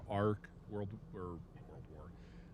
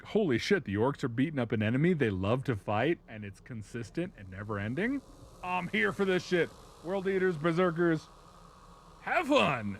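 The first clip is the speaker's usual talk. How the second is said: high, loud, gleeful battle cry; rally the troops like you can't wait to brawl; thrilled mock warlord, pitched up; hyped-up war god; 5 semitones higher, 3 dB louder than usual. Excited war god joins the fight.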